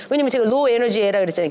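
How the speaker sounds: usual speaking voice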